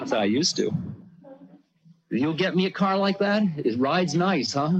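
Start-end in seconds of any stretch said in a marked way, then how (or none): 2.1-4.7 imitating the guru. Guru coaxing him for a car.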